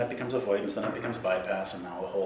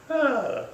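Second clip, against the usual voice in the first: sigh of release; 4 dB louder than usual. Acted. Release after the outburst.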